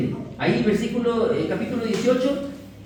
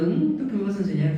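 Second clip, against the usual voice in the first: quick, dismissive sneer; mock a scornful look in words; fast contemptuous jab; scornful quote; faster than usual. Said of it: "Como diciendo".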